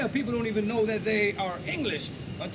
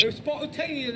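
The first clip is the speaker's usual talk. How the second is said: put-on posh English accent, a touch higher; mock posh English; 4 semitones higher than usual. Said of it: "how to talk like that. That's Mary Poppins".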